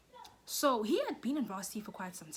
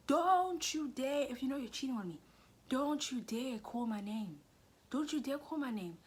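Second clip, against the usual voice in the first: acted scolding; 6 semitones higher, 4 dB louder than usual. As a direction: stretch the don't, mock-outraged. Acted scolding of cheating boyfriend.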